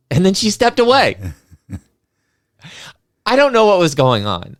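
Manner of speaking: laughing in disbelief. Real, not acted. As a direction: laugh through the words. Laughing at the bizarre encounter.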